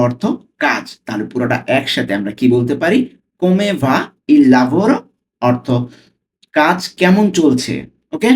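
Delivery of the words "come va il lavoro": very slow with a rising end; teacher modelling the question slowly; slow reading. Shown as a demonstration. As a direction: draw out "Come va il lavoro" slowly. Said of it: "slowly পড়ছি".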